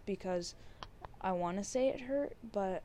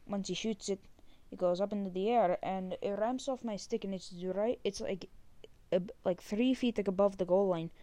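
put-on light Canadian accent, eh. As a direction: tell it with a hint of Canadian accent. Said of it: "really fast story in a Canadian accent".

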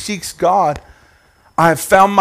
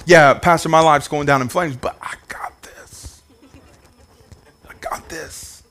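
hushed mock reassurance; whispered denial. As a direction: whisper it like false bravado. Voicing someone in denial.

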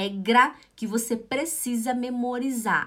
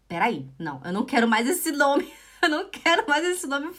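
higher-pitched protest breaking into a laugh; amused mock refusal; 4 semitones higher, faster than usual. Mother retelling her rejection of the baby name, laughing protest.

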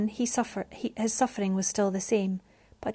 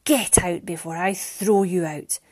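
angry shout; 2 semitones lower, 4 dB louder than usual. A narrator's reading. Father threatens to throw Mariana out, shouting angrily. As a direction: threaten her with force. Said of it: "he shouted".

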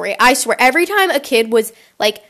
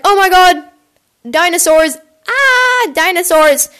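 excited mock outburst, higher pitched; excitada imitação; 6 semitones higher, 4 dB louder than usual. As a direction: squeal over a big find in mock excitement. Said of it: "getting all excited".

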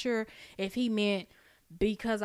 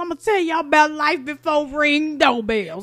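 put-on storyteller gathering kids, louder; old storyteller voice; 4 semitones higher, 6 dB louder than usual. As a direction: play the elder telling tales. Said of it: "Sit down, gather round, kids".

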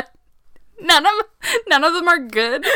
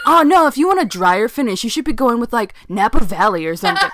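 bro voice; 4 semitones higher, 4 dB louder, faster than usual. Retold or imitated. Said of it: "started doing that voice".

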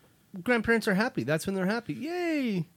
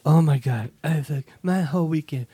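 mock complaining; 6 dB louder than usual. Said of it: "then bitches about it".

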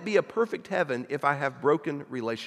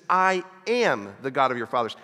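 "am" leaned on and louder, present tense; stress on AM; 4 dB louder than usual. Shown as a demonstration. Preacher stressing God's present tense, stress on "am". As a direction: hit "am" in "I am the God of your fathers". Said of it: "He speaks of them in a present tense".

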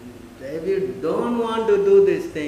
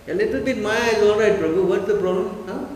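louder, higher, mock-casual coaxing; coaxing lax devotee; 4 semitones higher, 4 dB louder than usual. Teacher imitating a devotee urging a little Maya, loud mock-casual coaxing. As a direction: brush it off as no big deal, a hint of a tempter. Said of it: "This is how they talk".

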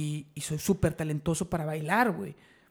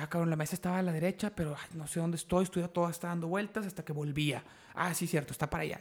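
softer voice, thinking to yourself; disoriented muttering; 7 dB quieter than usual. Retold or imitated. Losing his bearings at the table, softly bewildered. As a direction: drop the volume, talk yourself through the confusion.

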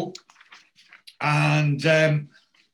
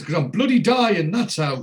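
raised, testy retort, acted out; imitated abrupt patient; 5 semitones higher, 5 dB louder than usual. Old patient answers his visitor's question, mock-abrupt. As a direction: cut them off as a cantankerous old patient, pitched up. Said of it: "he's being quite abrupt".

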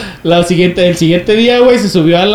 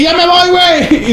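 mock goodbye; 10 semitones higher, slower than usual. Teller fakes leaving to scare friend.

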